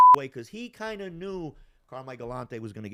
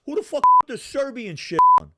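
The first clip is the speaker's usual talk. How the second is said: loud furious bellow, pitched up high; furious shout; 13 semitones higher, 16 dB louder than usual. Retold or imitated. Man in the bar yelling at whoever played the music, furious. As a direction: explode with rage at the jukebox. Enemy flips at Serbian music.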